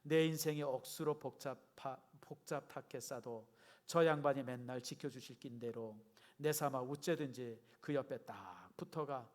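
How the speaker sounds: put-on Gyeongsang accent with drawn-out line endings; Gyeongsang dialect. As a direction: read it aloud as a Gyeongsang local would. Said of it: "경상도 버전은 이렇게 시작합니다". (경상도 사투리로)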